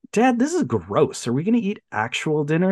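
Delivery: lightly voiced kid objecting to dad's dinner; twin boys complaining. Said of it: "And they're like".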